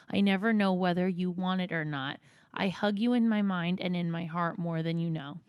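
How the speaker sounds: measured, slightly subdued reading; reading aloud. Acted. Friend reads mom's apology text aloud, subdued reading. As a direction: read a heartfelt message aloud, evenly.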